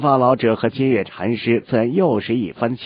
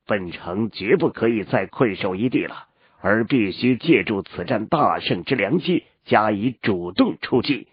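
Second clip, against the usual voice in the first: wise mentor. Acted. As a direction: speak as a measured old sage. Elder urges pursuit of enemy.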